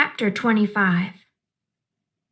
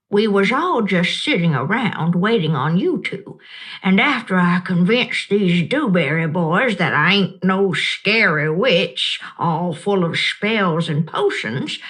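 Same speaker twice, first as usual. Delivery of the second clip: a lightly voiced old woman, kind and knowing; Gloria Dump; 4 semitones lower than usual. Old woman reassuring the upset child, gently amused.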